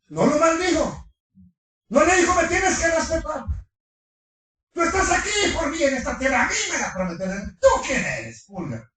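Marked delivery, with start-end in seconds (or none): 2.3-8.9 mock angry yell. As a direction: scold him like a bossy uncle. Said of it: "No gritó".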